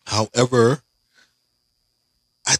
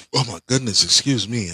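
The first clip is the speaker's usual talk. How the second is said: hiccuping mid sentence; with hiccups. Real, not acted. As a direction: talk through sudden hiccups. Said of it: "I've just got the hiccups all of a sudden".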